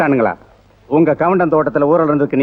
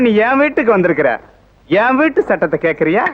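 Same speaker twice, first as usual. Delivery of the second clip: furious shout; 7 semitones higher than usual. Acted. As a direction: bellow at her to get out. Cop throws wife out. (கோபமான கத்தல், வெளியே போ என்று)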